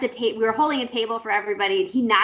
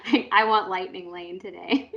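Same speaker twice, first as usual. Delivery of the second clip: mock whine. Joking demand to Disney.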